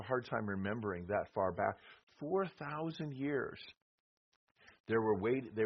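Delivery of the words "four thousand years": slow, weighty stress on "Four thousand years"; emphatic repeat. Acted. Preacher stresses to his class how long they waited, slow emphatic. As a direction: lean on "Four" and drag the phrase out slowly.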